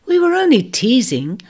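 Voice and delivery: high whispered imp voice; breezy reassurance from the other side; similar light tones. Acted. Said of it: "followed similar tones".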